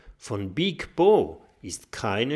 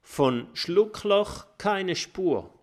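cheerful call; 9 semitones higher, slower than usual. A narrator's reading. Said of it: "ruft er".

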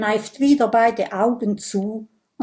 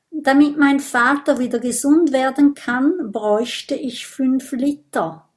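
higher, hurried, slightly sheepish; embarrassed explanation; 5 semitones higher, 3 dB louder than usual. Acted. Vampire admitting how much blood he needs, embarrassed. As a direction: explain it a little awkwardly. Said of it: "erklärt Bisbert verlegen".

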